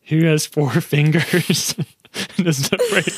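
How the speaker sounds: slow, laughing through the riddle. Pretend. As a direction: giggle through the question.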